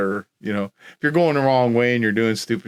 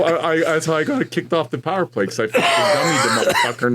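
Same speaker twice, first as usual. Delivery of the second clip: chuckling through the words; laughing; 4 semitones higher than usual. Real, not acted. Player laughing about knocking out the goalie, chuckling. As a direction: laugh while you tell it. Laughing while telling fight story.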